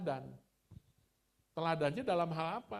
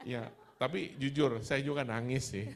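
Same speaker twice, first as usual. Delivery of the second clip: laughing confession; 9 dB louder than usual. Real, not acted. Admits crying, laughing.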